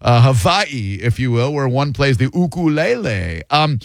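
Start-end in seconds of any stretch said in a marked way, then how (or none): 0.3-1.0 "Hawaii" with a V, huh-VAH-ee; corrected Hawaiian pronunciation. Shown as a demonstration. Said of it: "I'm gonna start correcting people". 2.4-3.4 "ukulele" drawn as oo-koo-leh-leh; corrected Hawaiian pronunciation. Shown as a demonstration. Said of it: "I'm gonna start correcting people".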